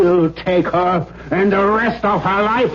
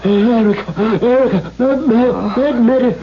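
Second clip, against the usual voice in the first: gasping; faster than usual. Acted. Heart attack, begging for medicine.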